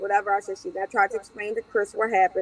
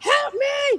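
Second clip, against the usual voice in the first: mock screaming, pitched higher; 4 dB louder than usual. Retelling running outside after a beating, imitating own screaming.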